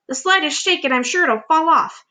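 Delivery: high, fretful aunt; aunt worrying the peach will fall; fussy aunt voice. Acted. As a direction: warn like a nervous old aunt.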